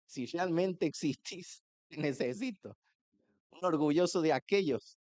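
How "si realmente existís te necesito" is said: slow mock plea. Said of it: "Fíjese usted con el grado de incredulidad".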